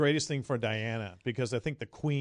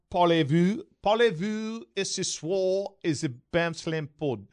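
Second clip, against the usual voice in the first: lightly put-on French accent; slow, halting tourist French; mock French; 3 semitones higher, slower than usual. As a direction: say it in bad French.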